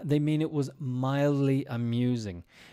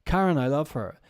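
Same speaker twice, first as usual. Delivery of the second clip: higher, gushing "Oh, Karen, I love her"; gushing enthusiasm; 6 semitones higher than usual. Retold or imitated. Teacher mimicking an American gushing about Karen, high. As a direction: gush over Karen like an American podcaster. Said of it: "you go".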